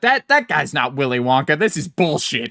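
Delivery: indignant kid calling out a fake; mock outrage. Seven-year-old denounces the fake Wonka, mock-indignant. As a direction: protest like a let-down believer. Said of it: "Will Ferrell elf moment".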